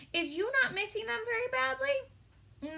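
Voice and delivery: high, odd storybook giant voice; a kind giant asking gently; giant's voice. A narrator's reading. Giant asking Sophie in a high put-on voice.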